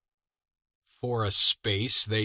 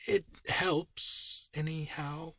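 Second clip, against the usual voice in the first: higher whispered aside to himself; 8 semitones higher, 5 dB quieter, slower than usual. Acted. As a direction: breathe it to yourself, barely voiced. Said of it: "whispered the little man to himself".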